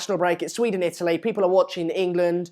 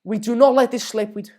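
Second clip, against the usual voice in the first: higher-pitched Scouse attempt; Steven Gerrard; 4 semitones higher, 3 dB louder than usual. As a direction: attempt a rallying Scouse captain's speech. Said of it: "You should do Gerrard".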